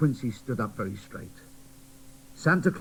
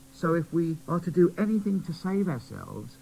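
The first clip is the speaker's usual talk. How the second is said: put-on high, bright child voice; boy doll urging the toys to play, high; cheerful little boy doll; 7 semitones higher than usual. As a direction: cheer them up. Quincy speaks.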